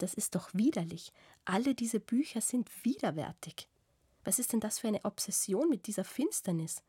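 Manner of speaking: a hint of an indignant lover, rising in pitch; lightly voiced Iwan scolding. Iwan scolds the narrator over her dark books, mildly indignant. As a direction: scold her half-teasing about gloomy books.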